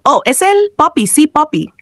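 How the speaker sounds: high, thrilled exclamation; excited. A narrator's reading. Gamer seeing the end of the level, excited. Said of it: "exclamó emocionado".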